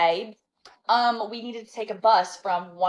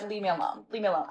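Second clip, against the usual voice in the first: softer, weary brush-off; tired dismissal; 6 dB quieter, faster than usual. Retold or imitated. Telling her ex to leave her alone, softer and weary. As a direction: push him away without raising your voice.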